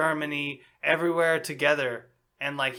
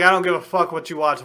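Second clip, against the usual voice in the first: mock retort; 6 dB louder, faster than usual. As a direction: throw it back at him. Retorting to teasing coworker.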